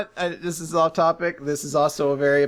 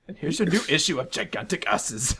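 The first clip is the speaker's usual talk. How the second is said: Homer; 2 semitones lower, 4 dB quieter than usual. Acted. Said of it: "pretending to be Krusty".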